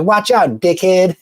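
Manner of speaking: put-on the nine-year-old kid at the store, taunting; kid's taunt. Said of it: "He's like".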